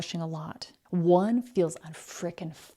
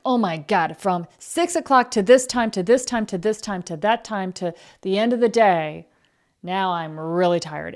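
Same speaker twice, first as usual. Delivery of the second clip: louder, rushing through the hours; mock frantic rundown; 5 dB louder than usual. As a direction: imitate someone breathless with a packed schedule.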